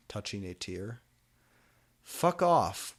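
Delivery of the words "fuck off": snapped retort. A narrator's reading. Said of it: "we both said".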